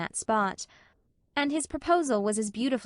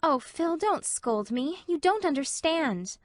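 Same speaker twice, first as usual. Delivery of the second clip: put-on higher, pleading young woman; Anne; 6 semitones higher, slower than usual. A narrator's reading. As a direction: beg her friend not to scold.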